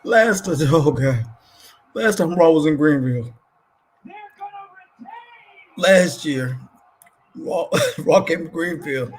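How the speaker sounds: hyped about Raw in Greenville; excited. Real, not acted. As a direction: burst out remembering the crowd. Recalling wild Greenville show.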